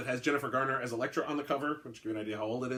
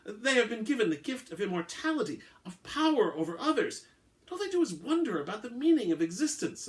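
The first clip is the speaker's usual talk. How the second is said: disdainful vampire rant; 8 semitones higher, 4 dB louder than usual. Acted. Vampire ranting to the hunter about modern vampires, hammed-up disgust. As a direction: ham up his contempt for moping vampires.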